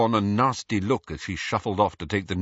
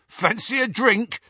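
put-on loud, leering drunk calling out; drunken yell; 7 semitones higher, 3 dB louder than usual. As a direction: shout across the road, tipsy. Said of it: "was yelling".

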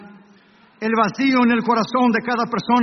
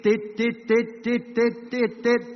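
imitated heart monitor beeps; much slower than usual. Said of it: "el monitor hizo tit".

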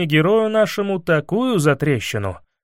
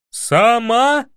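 much higher, louder wail; wailing shout; 8 semitones higher, 4 dB louder than usual. A narrator's reading. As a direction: howl it in disbelief. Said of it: "завопил Иван".

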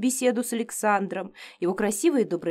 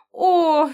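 loud high cry of pain; sharp pained oh; 7 semitones higher, 7 dB louder than usual. A narrator's reading. Sharp headache strikes.

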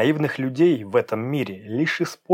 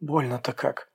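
mock moan of pain; faked pain; 3 semitones higher, slower than usual. A narrator's reading. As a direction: pretend it hurts badly. Faking pain in car.

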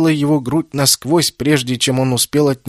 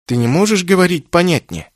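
flehend; 6 semitones higher than usual. A narrator's reading. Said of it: "взмолился Кеннет".

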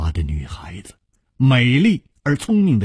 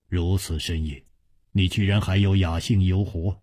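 low, soft smiling remark; 7 semitones lower, 5 dB quieter than usual. A narrator's reading. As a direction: greet a friend with a quiet smile in the voice. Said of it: "楚留香微笑着说". (微笑着低声说)

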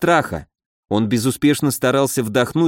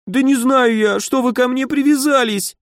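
much higher tearful wail; 11 semitones higher than usual. A narrator's reading. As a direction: wail in despair. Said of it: "запричитал мальчик". (запричитал, высоко и плаксиво)

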